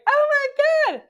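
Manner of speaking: high-pitched shriek of disbelief; retold excited scream. Author reliving the book-club call, excited scream. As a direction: scream it out as if just told huge news. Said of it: "then I screamed".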